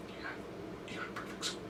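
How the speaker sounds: faint breathy whisper with almost no sound. Shown as a demonstration. Professor secretly whispering a perfect score to her student. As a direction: hush it so it can barely be heard. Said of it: "Like that".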